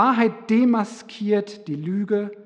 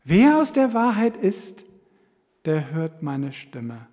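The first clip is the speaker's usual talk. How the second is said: emphatic repeat; 5 dB louder than usual. Shown as a demonstration. Preacher repeating Jesus' words to the congregation, louder. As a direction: hammer home Wer aus der Wahrheit ist, then slow down. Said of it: "Jesus hat aber kurz vorher gesagt".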